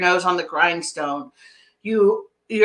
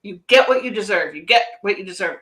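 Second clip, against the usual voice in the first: grim, heavy repeating, the second time faster; negative tone; faster than usual. Retold or imitated. Client's inner voice replaying a harsh saying, negatively. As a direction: echo it like a critical inner voice. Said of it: "negative connotation".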